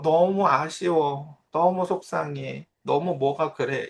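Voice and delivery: put-on slow, drawn-out child's whine; imitating whiny daughter. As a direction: stretch each 너무 like a sulky kid. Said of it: "이런 말을 잘하거든요".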